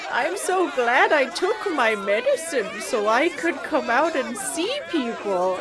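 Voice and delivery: put-on old man voice. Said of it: "you hear that old man voice?".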